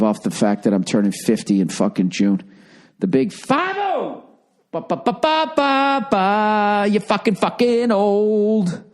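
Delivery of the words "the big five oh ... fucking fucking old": high mocking heckle, slow and drawn out; mock taunting. A comic teasing himself about turning fifty, in a high mocking voice. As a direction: taunt yourself in a silly high voice.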